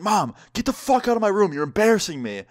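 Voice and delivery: high-pitched mock outburst at mom; imitated yelling. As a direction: act out a mortified son yelling. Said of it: "hear him start yelling at her".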